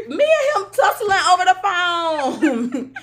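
laughing hard. Real, not acted. Laughing recalling the phone scuffle.

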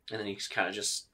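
put-on drunk suspect's voice. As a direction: play the bitter drunk telling his story.

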